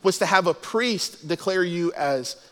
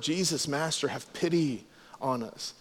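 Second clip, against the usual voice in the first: soft, lower reverent plea; 4 semitones lower, 8 dB quieter than usual. Retold or imitated. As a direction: quote the plea softly, with respect. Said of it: "to show their love, admiration, respect".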